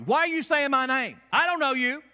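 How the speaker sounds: high, loud barked-out challenge; acted guard-dog protest; indignant dog talking. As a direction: play an affronted dog warning off a stranger. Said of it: "Maggie will bark at you".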